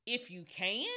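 Jesus repeating the father's doubt back to him, incredulous; incredulous echo. Acted. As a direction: raise the IF and lift the end like a disbelieving question. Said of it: "Jesus said to him, "You say to me".

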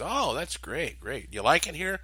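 over-eager neighbour chatting you up; lightly voiced chatty stranger; friendly stranger. Stranger chats him up.

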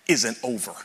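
whispered promise to the congregation; hushed. Real, not acted. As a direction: lean in and breathe it to them.

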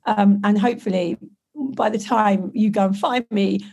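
hoarse, croaky voice from covid; a real croak, like a frog. Real, not acted. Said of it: "I won't sound quite so like a croaky frog".

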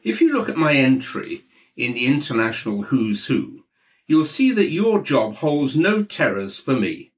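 Maxwell. Acted. Maxwell bragging down the phone line, lightly voiced and smug. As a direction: show off your achievements smugly.

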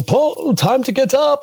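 high, loud wake-up call through the door. Retold or imitated. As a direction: call him out of bed at dawn. Host wakes him at five.

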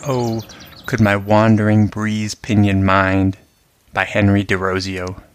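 measured, announcing the poem; title read before a poem. Acted.

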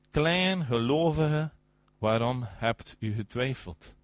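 slow, deliberate reproof; measured rebuke. Acted. Preacher quotes Jesus to sinking Peter, slow reproof. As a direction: let each word of the rebuke land.

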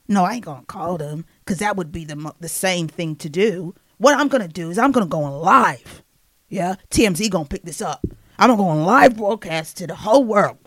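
lightly voiced rapper announcing his plan. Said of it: "So he's like".

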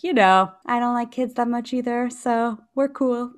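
lightly voiced dog telling kids they're cool; dog's voice to kids. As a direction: speak for the small dog, deadpan and unbothered. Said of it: "I'm like".

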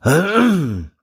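sharp throat clear. Real, not acted. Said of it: "little heartburn there".

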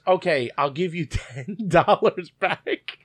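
slow, lightly voiced lady on the phone, laughing through it; mock phone agent. Mimicking the Chipotle phone lady offering ten dollars, slow and laughing. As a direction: play the agent as if the offer is generous. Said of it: "So then the lady goes".

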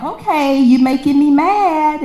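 high, tight warning; half-acted anger building toward a snap; rising anger. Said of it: "So I'm like".

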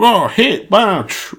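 sudden high, bright burst on hit; excited quote. Retold or imitated. Imitating himself at the blackjack table, suddenly high and excited. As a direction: blurt it out high, like the answer just clicked. And you're like.

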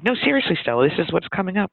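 high-pitched retold insistence; earnest, starting high then settling; excited insistence. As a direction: imitate a friend pressing the point.

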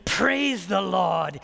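put-on slow, deliberate Kenyan accent. Visiting pastor greets his brother by phone, Kenyan accent. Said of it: "I'll only do his accent once".

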